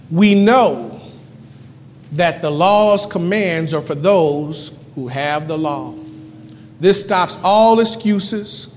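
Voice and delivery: slow, deliberate Bible reading; measured pulpit reading; solemn scripture reading. Acted. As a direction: read it out weightily, pausing between phrases. Reads scripture aloud.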